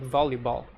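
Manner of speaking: "volleyball" opening on a distinct V; V sound. Shown as a demonstration. Co-teacher giving V examples, "volleyball" with clear V. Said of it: "V sound is really different".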